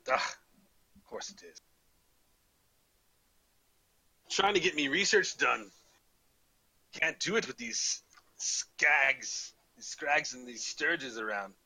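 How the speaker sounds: grumbling, hammed-up Scottish burr; horrible Scottish accent. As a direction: complain crossly in mock Scottish. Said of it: "back to my horrible Scottish accent".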